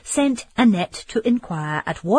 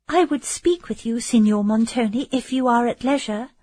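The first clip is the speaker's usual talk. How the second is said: higher, hesitant plea; faltering; 5 semitones higher than usual. Acted. Emily faltering as she addresses Montoni. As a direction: ask it haltingly, nerves showing. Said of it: "in a faltering accent".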